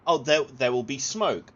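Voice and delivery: loud, high mock reassurance; hammed-up installer voice, loud and cheerful; installer's assurance. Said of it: "he literally said".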